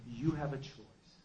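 slow, soft and grave; hushed, unhurried voice of guidance; calm inner voice. Retold or imitated. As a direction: imitate a calm voice offering a choice. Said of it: "calm, comes into my head".

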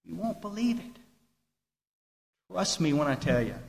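suddenly soft and intimate; hushed emphasis. Real, not acted. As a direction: drop right down for effect. Drops to hush after loud climax.

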